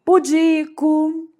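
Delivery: slow Pudico, pu-DI-co; stress on DI. Shown as a demonstration. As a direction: stretch the DI in Pudico. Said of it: "a sílaba tônica".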